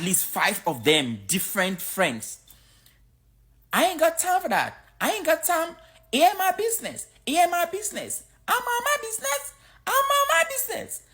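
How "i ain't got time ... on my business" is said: much higher, imitating a Black American accent; Black American accent imitation. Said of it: "That's how they talk".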